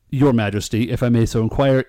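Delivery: lightly courtly mock formality; politely petition a king, tongue in cheek; a touch of Shakespearean ceremony; old-time royal courtier. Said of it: "speak to him in Shakespearean English".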